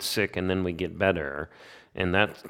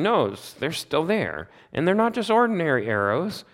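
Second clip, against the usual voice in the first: anguished Job; 8 semitones higher than usual. Retold or imitated. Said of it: "And he's saying".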